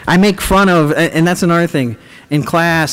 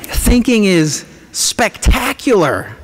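mock grandeur; 6 semitones higher, slower than usual. Mock-grand praise of thinking.

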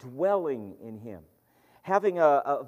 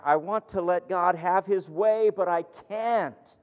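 higher, louder cry of frustration; cried out; 5 semitones higher, 4 dB louder than usual. Retold or imitated. Young man at prayer crying out, louder. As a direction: call out the line in mock frustration. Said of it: "he cried".

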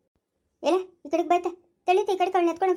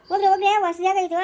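raised voice, higher and louder; exasperated ordering; 4 semitones higher, 5 dB louder, faster than usual. Acted. Sleepless elder ordering the child taken away, exasperated and loud. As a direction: send them off loudly.

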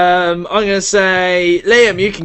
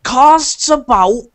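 higher, hearty tavern barkeep; greasy Hagrid barkeep; 5 semitones higher than usual. Acted. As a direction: haggle like a grubby innkeeper. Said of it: "is this like a greasy Hagrid?".

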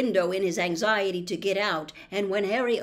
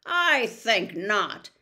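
put-on slow, menacing old spider voice; much slower than usual. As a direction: ancient spider refusing, slowly. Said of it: "said Aragog slowly".

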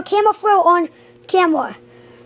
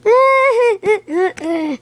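drawn-out mock sob in pulses; pretend sobbing; 3 semitones higher than usual. Worn-out character before asking Mario for help, mock sobbing. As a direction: let out a play-acted wail broken into sobs.

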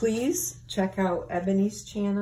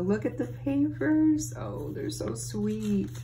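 high, squealing delight at the papers; over-the-top excitement; 4 semitones higher than usual. Real, not acted. Thanking her friend for the gift, thrilled and squealy. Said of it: "I feel like I'm screaming".

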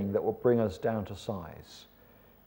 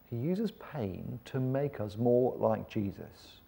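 "uses" stressed, whole line softer and slow; soft restatement; 6 dB quieter, slower than usual. Shown as a demonstration. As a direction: repeat it quietly, slow on "uses". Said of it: "repeated, softer".

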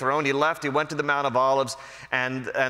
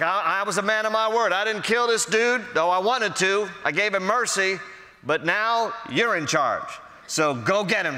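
hint of scheming David; 6 semitones higher than usual. David urges Solomon to take revenge.

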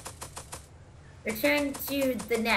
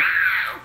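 seagull scream; 4 semitones higher, 4 dB louder than usual. Retold or imitated. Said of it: "but they sound like".

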